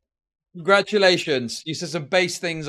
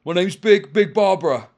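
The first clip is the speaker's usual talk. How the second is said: mock commenter voice; 4 dB louder than usual.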